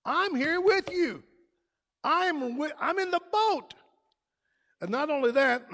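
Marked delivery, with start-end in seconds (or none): 0.1-3.7 higher, reassuring call to the disciples; voicing Jesus. Preacher voicing Jesus reassuring disciples in the boat, higher. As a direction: lift the voice and comfort them. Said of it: "So he says".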